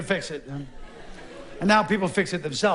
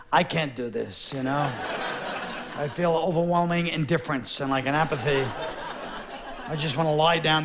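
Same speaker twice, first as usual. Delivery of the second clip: apathetic soldier; 3 semitones lower than usual. Retold or imitated. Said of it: "just turn to each other".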